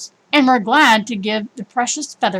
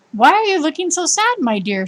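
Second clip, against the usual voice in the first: kindly; 6 semitones higher than usual. Acted. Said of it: "she said kindly".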